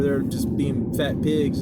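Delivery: slow, stretched-out words on fat pigs; drawn-out emphasis. Real, not acted. Telling a friend about sows at the trough, drawn out. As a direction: lay out the words slowly. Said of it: "Did you have to say it like that?".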